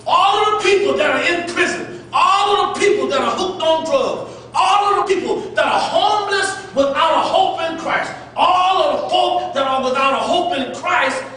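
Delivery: rising preacher's cadence, pushing each line; preaching. Acted. Pastor urging the congregation, building preacher cadence. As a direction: hammer the repeated lines like a preacher.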